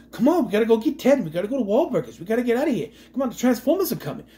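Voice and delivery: mock Boston bro urgently rallying the crew; Mark Wahlberg Boston impression. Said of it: "I'm waiting for him to go".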